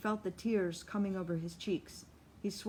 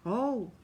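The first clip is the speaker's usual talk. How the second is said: crowd gasp; 3 semitones higher, 5 dB louder than usual. A narrator's reading. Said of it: "There is a prolonged gasp from the house".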